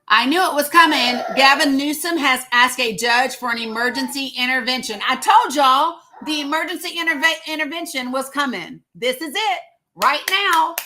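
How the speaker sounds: thrilled vlogger bragging she saw it coming; excited told-you-so. Real, not acted. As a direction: crow that you predicted it, high and loud. Gloating over predicted news.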